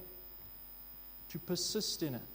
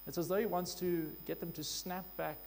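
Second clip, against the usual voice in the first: ordinary delivery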